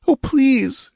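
high, trembling plea; frightened begging. A narrator's reading. Captive girl begs Conan, high and frightened. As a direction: beg in abject fright. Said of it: "she begged, quivering with abject fright".

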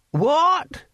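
put-on high, slow, cracked old man asking; deaf old man voice. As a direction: strain to hear, old and slow.

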